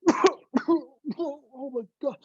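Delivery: very high, slow, stretched out cry of disgust; disgusted shock. Retold or imitated. Friend who tasted diesel fluid, drawn-out disgusted gasp. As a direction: drag out the horror of a foul taste.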